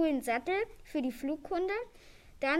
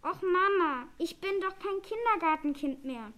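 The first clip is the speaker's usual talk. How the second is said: put-on mildly indignant child, higher and louder at the start; whiny protest; 4 semitones higher, 4 dB louder than usual. Little dragon argues with his mother, whiny protest. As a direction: complain to mum like a kid.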